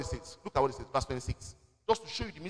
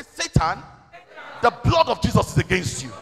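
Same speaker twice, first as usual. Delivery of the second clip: loud, bold declaration against Satan; preacher leading the church to shout it boldly; with audacity; 7 dB louder than usual. Shown as a demonstration. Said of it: "Say it with audacity".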